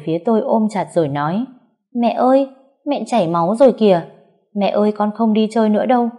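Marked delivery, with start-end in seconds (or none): 1.9-6.1 put-on high, quick little boy voice; a young boy begging his mother, rushing; little son pleading with his mom; small child pleading.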